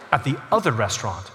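put-on indignant little girl. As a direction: put the big waiter firmly in his place. Offended five-year-old corrects the waiter.

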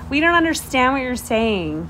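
mock-snooty complaint; snotty. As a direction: imitate a bratty roommate looking down on someone. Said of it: "They were just snotty".

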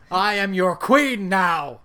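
loud, slow evil queen decree. Pretend. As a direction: proclaim it like a tyrant queen. Mock queen proclaiming power.

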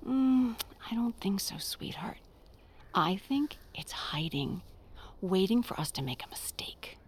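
low, soft near-whisper; hushed warning. Acted. Mother warning her son about the bad thing, hushed.

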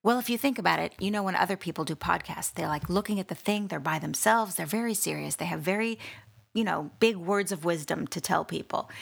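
soft, mock-serious podcaster; put-on podcast voice. Host parodies very serious solo podcasters, soft put-on voice. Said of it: "now I'm gonna talk like this".

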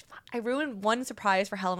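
whispered panicked thought; whispering. Retold or imitated. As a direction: breathe it out unvoiced in dismay. Retold panicked inner thought.

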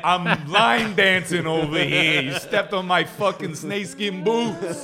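high, loud, slow hammed-up cowboy gripe; cowboy whose boots got stepped on, hammed-up gripe; mock Texan line dancer. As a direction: whine like an offended cowboy over his boots.

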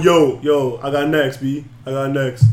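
lightly voiced sidelines player calling dibs; imitated ball-court player. Player with a ball calling next game, lightly imitated. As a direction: casually claim the next game, lightly acted. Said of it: "sitting on the sidelines with a ball going".

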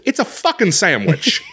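retold irritated comeback; exasperated retort. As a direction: correct her, fed up. Retold argument with the worker.

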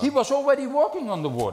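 emphatic preaching. Real, not acted. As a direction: preach it at full force. Preacher driving home his point. (preacher insisting Peter already walked on water, loud and fast)

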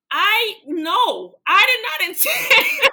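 loud, high, laughing denial; emphatic protest. Real, not acted. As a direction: protest at the top of your pitch, breaking into laughter. Laughingly denying it was planned.

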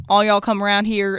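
lightly put-on Southern twang; demonstrating a mild Southern accent. Shown as a demonstration. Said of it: "have to be a Southern sentence".

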